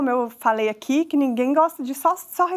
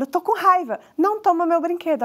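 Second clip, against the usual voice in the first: lightly voiced child, a bit higher; child asserting themselves; 5 semitones higher than usual. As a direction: state it firmly as a coached child would. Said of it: "Aí a criança fala". (criança se impondo, voz levemente aguda)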